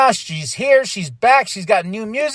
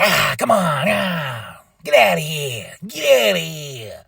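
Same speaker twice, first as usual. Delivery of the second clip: lightly voiced Daddy Magic; slower than usual. Voicing Daddy Magic with crowbar.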